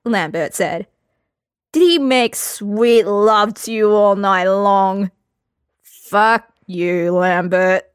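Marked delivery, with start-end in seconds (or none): 1.7-5.1 mocking tease. Lambert teasing mockingly. 5.8-7.8 groaning. Acted. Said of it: "Geralt groaned".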